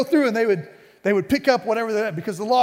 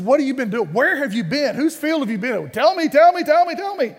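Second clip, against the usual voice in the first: building to a higher, louder "tell me, tell me"; eager questions; 5 semitones higher, 3 dB louder than usual. Retold or imitated. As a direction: pester her for the news, climbing up. Naomi eagerly questions Ruth.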